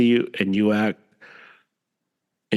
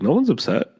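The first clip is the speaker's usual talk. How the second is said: incredulous comeback, higher; baffled denial; 5 semitones higher than usual. Retold or imitated. Answering a friend's excuse, retold in bafflement. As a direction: pitch leaping up in retold disbelief. Retelling own baffled reply.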